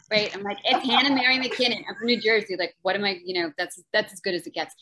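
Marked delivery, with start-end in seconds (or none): 0.6-2.6 her own flat American take on It's Hannah Mary McKinnon, a touch louder; mock American accent. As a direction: playfully contrast her American accent with the guest's British one. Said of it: "when I say it, it sounds like Little House on the Prairie".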